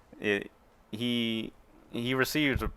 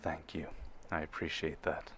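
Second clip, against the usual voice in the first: imposing Imperial officer; 3 semitones lower, 7 dB quieter than usual. Acted. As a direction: speak down from seven feet tall, unhurried. Officer thanks again.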